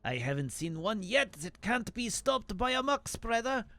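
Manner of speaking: mock French farmer voice; second voice, gruff bravado; lightly hammed French farmer; fake French accent. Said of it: "two fake French accents".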